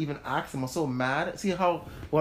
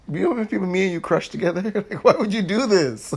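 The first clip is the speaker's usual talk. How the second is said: heated; 4 semitones higher, 7 dB louder than usual. Real, not acted. Heated recap of betrayal.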